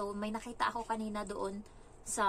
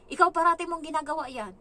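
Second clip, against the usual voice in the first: loud, higher accusing tone; retold scolding; 7 semitones higher, 9 dB louder than usual. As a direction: act out telling off a child. Retells scolding the child. (malakas na panenermon, ginagaya lang)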